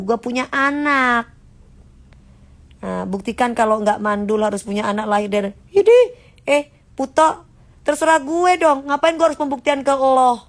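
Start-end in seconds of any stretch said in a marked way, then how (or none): 5.7-10.4 sharp high sassy comeback, louder; snapping back at a nosy commenter, high and loud; mock retort. Talking back to a rude commenter, sharp and loud.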